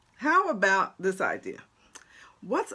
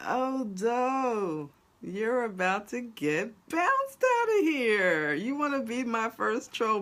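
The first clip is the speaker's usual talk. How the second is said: higher-pitched warning to a troll; tough Camden attitude; 4 semitones higher than usual. Real, not acted. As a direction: dare the troll, Camden-style. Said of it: "I'm from Camden, y'all. Camden came out".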